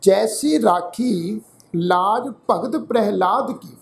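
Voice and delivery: slow, measured Gurbani reading; drawn-out words with pauses between phrases; scripture recitation. Shown as a demonstration. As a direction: recite the verse slowly, phrase by phrase. Recites scripture verse for a lesson.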